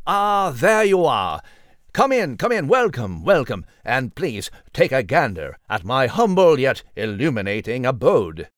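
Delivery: a hint of a pompous host showing off his home; grand welcome. Nigel welcomes his friends into his newsroom, lightly voiced and grand.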